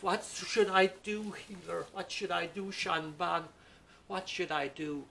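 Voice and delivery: pleading son. Acted. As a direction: beg the healer for help.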